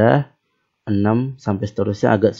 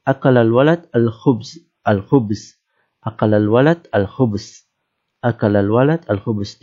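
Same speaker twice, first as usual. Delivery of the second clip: Arab style. Shown as a demonstration. Teacher demonstrating Arabic sentence in Arab accent for students. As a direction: read it the way an Arab would say it. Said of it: "kita pakai gaya orang Arab".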